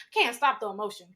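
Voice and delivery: ordinary talk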